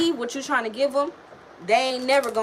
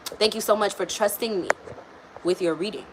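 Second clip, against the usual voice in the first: robotic. Real, not acted. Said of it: "I sound like a robot".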